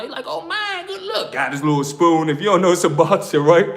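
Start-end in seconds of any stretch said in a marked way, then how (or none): 0.3-1.3 high, laughing "good luck"; a much higher laughing cellmate. Retold or imitated. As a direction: crack up while wishing him luck. Celly laughing at the strip.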